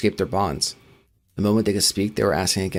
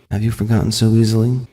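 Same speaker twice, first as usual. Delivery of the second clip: sinister; 5 dB louder than usual. Acted. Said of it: "The subject smiled".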